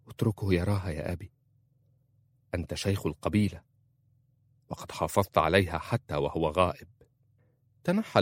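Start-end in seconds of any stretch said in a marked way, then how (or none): 0.1-6.9 soft, quick pleading with her father; gently. A narrator's reading. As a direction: coax him gently, softer. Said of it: "وقالت في رفق". (برفق وبصوت أخفض)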